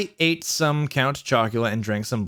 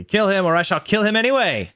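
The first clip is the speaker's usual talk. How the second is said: high, hammed-up villain threat; mock cruel villain; 7 semitones higher, 3 dB louder than usual. A narrator's reading. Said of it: "he laughed crudely".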